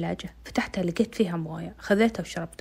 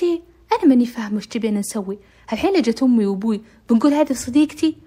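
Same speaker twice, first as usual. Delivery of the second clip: irritated complaint; 4 semitones higher, 7 dB louder than usual. Retold or imitated. Amal argues with her brother.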